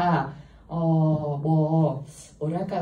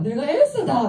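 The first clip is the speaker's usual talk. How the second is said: tag; 7 semitones higher, 6 dB louder than usual. Retold or imitated. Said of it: "막 하는 거예요".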